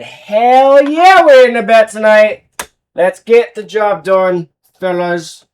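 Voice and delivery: put-on loud, high Caribbean-accented yell. Bettor relays Mookie yelling in his ear, in a loud Caribbean accent. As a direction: shout it high with a Caribbean lilt. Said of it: "I don't know why I turned into Caribbean accent".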